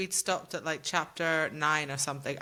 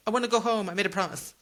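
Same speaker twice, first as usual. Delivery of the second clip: whiny Freya; 3 semitones higher, 3 dB louder, faster than usual. Retold or imitated. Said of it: "without her going".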